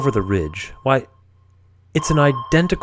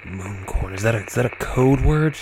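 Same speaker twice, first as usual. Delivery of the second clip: Captain Murphy voice; 2 semitones lower, 4 dB quieter than usual. Acted. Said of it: "the Captain Murphy voice".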